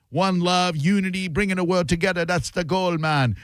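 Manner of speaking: lightly voiced reggae singer; a hint of a singer impression; a reggae singer. Host quotes a reggae guest's message, lightly imitated voice. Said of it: "you go from a reggae singer".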